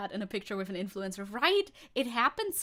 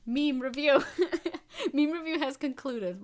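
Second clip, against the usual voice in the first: laughing announcement; 5 semitones higher, 6 dB louder than usual. Real, not acted. Closing a meme review segment.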